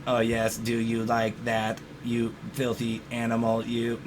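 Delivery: slow robot voice doing dirty talk. Pretend. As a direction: read it like a slow sex robot. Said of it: "it does it in a robot voice".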